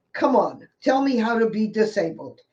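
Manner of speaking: a wry, challenging plea. Real, not acted. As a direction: dare the audience to answer. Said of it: "You have to laugh".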